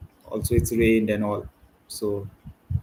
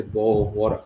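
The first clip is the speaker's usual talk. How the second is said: lightly mocked English accent; a hint of playful English accent; 2 semitones lower than usual. Streamer repeats it because it's fun to say, light English accent. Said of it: "But it is fun to say".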